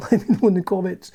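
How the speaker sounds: laughing, ironic repeat of "Let me know in the comments"; mock YouTuber plea. Shown as a demonstration. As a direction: send up the engagement plea with a chuckle. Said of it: "As I say, it's all about engagement".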